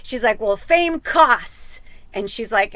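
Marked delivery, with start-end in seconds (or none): 0.4-1.6 higher, louder, slow and choked up; tearful quote. Retold or imitated. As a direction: quote it through real tears. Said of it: "I'm starting to cry".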